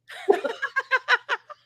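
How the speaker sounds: shrill burst of giggles; high squealing laugh. Real, not acted. Laugh after sweater joke.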